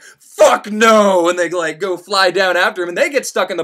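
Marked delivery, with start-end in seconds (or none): 0.0-1.3 angry refusal. Retold or imitated. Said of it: "the demons are like".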